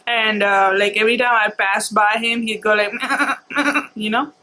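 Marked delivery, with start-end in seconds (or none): 3.0-3.9 short imitated goat bleat; goat bleat imitation. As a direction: mimic a goat's bleat, quick and mocking. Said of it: "he would make that goat, goat sound".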